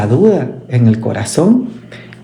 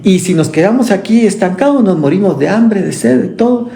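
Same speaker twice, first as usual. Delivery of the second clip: higher-pitched, hurried desperate plea; desperate widow; 5 semitones higher than usual. Retold or imitated. Widow pleading to the Lord, mock desperation. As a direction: cry out that there's no way out. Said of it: "donde ella dijo".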